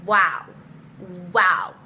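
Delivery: loud flat disbelieving wow; stunned. Retold or imitated. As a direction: let the wow land loud.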